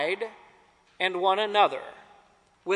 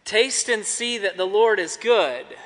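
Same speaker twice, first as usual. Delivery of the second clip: smiling. Shown as a demonstration. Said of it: "try to smile when you say it".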